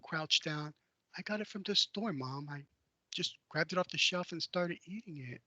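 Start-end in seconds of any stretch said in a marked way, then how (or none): 1.2-5.4 put-on timid child. I kind of crouched down.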